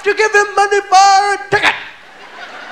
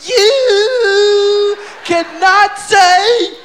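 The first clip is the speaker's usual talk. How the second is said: angry lecture; 2 semitones higher, much slower than usual. Retold or imitated. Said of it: "Bill got pissed and said".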